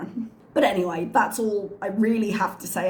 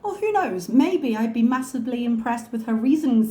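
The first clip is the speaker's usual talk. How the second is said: high, mock-innocent shrug; sarcastic; 4 semitones higher, 4 dB louder than usual. Real, not acted. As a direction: toss it off with sarcasm. Sarcastic reply.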